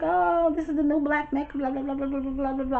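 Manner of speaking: high, mock-excited auntie voice; lightly mocking gushing auntie. Auntie voiced in retold story.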